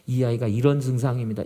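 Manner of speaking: measured, composed retold account; calm, orderly explaining. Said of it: "의사 선생님에게 차근차근하게".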